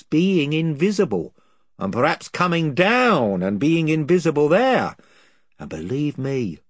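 rough, eager island chief, rambling on; a lightly voiced gossiping chief, wheedling. A narrator's reading. Chief voice tells the story.

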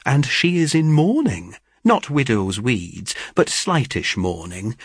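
eager news-teller, pitch swooping up on key words; animated young Rose, emphatic and chatty; lightly voiced gossiping sister. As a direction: relish every detail of the gossip. Rose tells the neighbourhood gossip.

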